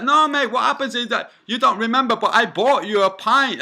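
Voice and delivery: mock pushy stranger. Mimics the man's insistent excuse.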